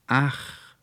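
stammering. A narrator's reading. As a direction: stumble over the title in confusion. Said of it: "stammelte der Konrektor".

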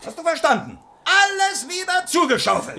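high, loud barked order; furious shout. Acted. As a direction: yell it at him. Prince yells the order.

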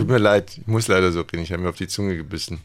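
talking with a bitten tongue held still; holding tongue. Pretend. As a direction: keep the tongue pinned while talking. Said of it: "wirst du jetzt die ganze Zeit so sprechen".

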